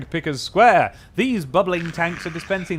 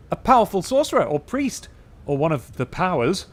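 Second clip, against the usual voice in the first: frowning dustman; 4 semitones higher, 4 dB louder than usual. Acted. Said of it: "he frowns".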